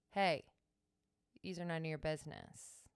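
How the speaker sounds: snapping pep talk. Shown as a demonstration. Teacher demonstrating a snapping pep talk. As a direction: break the energy with a sharp hey. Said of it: "I will literally snap".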